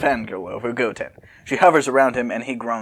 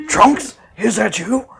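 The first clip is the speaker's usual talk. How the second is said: calling out; 7 semitones higher, 4 dB louder, slower than usual. Acted. Calling out again.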